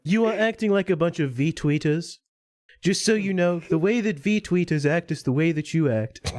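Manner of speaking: lightly imitated smug scolding; Sargon, smug lecturing. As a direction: mimic a smug man telling people off. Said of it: "that's kinda Sargon".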